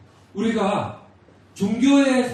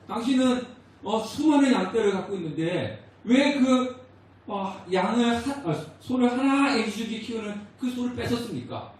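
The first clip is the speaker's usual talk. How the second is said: rebuking prophet; 5 semitones higher than usual. Retold or imitated. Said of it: "책망하니까".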